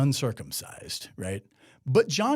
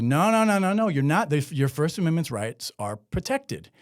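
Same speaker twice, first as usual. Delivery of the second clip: lightly acted insistent denial, pitched up; raised, emphatic mock objection; imitated protesting lawmakers; 3 semitones higher than usual. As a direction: protest like a lawmaker reassuring a critic. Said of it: "lawmakers who voted for this would say".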